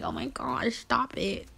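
soft, bashful mock protest; coy flattered protest. Coyly acting flattered by fans' praise.

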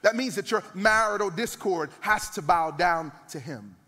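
rising fervent sermon; preaching at full force. Real, not acted. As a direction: build the crowd with repetition.

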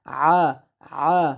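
আ squeezed from mid-throat; throat-pressed আ. Shown as a demonstration. Teacher correcting hamza to ain, আ pressed in the throat. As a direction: constrict the throat on each আ. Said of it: "গলাটা চাপ দিয়ে উচ্চারণ করতে হবে".

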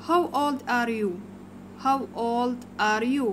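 put-on "How old are you?" spoken slowly, word by word; slow modelled question. Shown as a demonstration. Teacher modelling the question for children, slow and clear.

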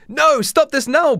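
high, drawn-out hammed-up shout; mock yell. The speaker begs Daniel to stop, yelling high. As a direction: yell it slowly in mock panic. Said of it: "Braden yells at me".

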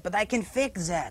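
slow, put-on French accent like mother's; fake French accent. Shown as a demonstration. Son shows he can fake mother's French accent. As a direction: draw it out with French "z" sounds. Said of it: "the only thing I don't have is the accent".

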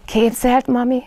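bursting to tell his mum; excited Roo. A narrator's reading. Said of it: "lelkendezett Zsebi baba".

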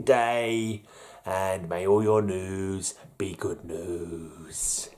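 a slow, drawn-out grand farewell; hammed-up outro blessing; sign-off flourish. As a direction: stretch the sign-off like a show host. Sign-off catchphrase.

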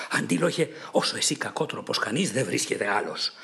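understated furious shout at Antilochus; angry shout. Acted. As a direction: call him out, mildly enraged. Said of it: "χόλιασε μαζί του και φωνάζει".

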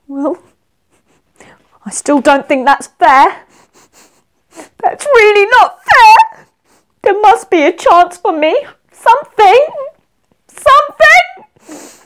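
high, hammed-up wail of protest; forlorn pleading. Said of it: "Madai felt very forlorn".

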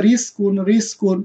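light, thin r opening রিস কুন. Shown as a demonstration. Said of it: "পাতলা করে পড়তে হবে". (রিস কুন-এর র পাতলা করে)

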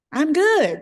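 high, loud sing-song reply; the operator Dreama, voiced high and chirpy; operator's phone voice. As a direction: answer the call cheerily in a high voice.

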